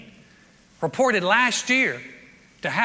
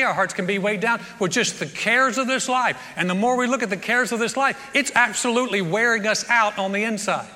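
preaching. Acted. Pastor preaching to the congregation, at full force. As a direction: press the point home to the congregation.

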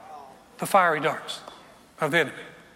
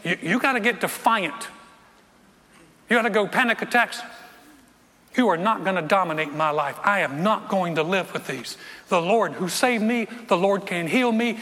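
defiant. Retold or imitated. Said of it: "I told him this".

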